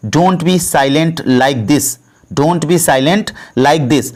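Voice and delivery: very slow, every word laid out for learners; slow, careful model sentence; slow teaching demo. Shown as a demonstration. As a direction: spell it out slowly for the class. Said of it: "इसको English में बोलना होगा तो हम बोलेंगे".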